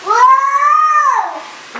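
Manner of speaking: loud high-pitched whoa; sudden startled exclamation; surprised. Real, not acted. Child wobbles during exercise.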